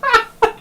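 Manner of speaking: high, sudden burst of laughter. Real, not acted. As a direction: break into a real high laugh. Laughs at the sentence.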